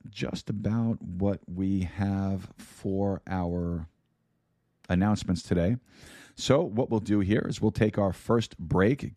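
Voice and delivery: scratchy, worn voice. Real, not acted. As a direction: talk through a scratchy throat. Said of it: "my scratchy voice".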